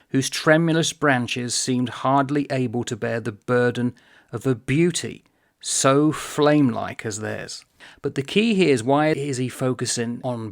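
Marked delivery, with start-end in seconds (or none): 0.1-7.6 deliberate read-aloud, drawing out the end; measured reading that slows towards the close. Shown as a demonstration. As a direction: linger over each phrase. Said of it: "but slowly".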